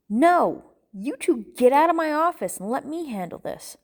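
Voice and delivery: forceful, high-pitched dismissal; angry order. Acted. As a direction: order them out, fed up. Angry man orders friends out.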